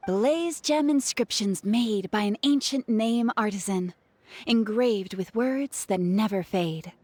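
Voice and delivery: slow, grand advert voice, half in jest; mock sales pitch. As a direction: sell it like a merchant hawking treasure. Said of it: "Quite the sales pitch".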